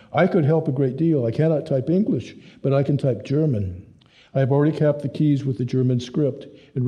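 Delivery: lightly voiced German man, eager and hopeful; hint of a German speaker, bright and keen; earnest German helper. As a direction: play Hans as a keen young German offering help. Hans voiced as German character.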